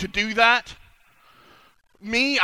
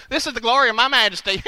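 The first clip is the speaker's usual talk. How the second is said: manly king voice; 2 semitones higher than usual. Shown as a demonstration. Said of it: "they got a man voice".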